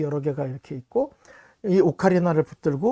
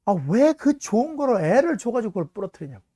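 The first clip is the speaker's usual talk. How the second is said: retold scolding; 5 semitones higher, 4 dB louder than usual. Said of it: "제가 한 소리 했죠".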